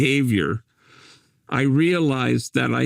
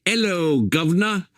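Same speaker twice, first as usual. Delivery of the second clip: high-pitched, imitated "'ello guv'nor" call; mock loud greeting; 4 semitones higher than usual. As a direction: hail someone in a put-on, higher voice. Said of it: "very loudly, they'd say".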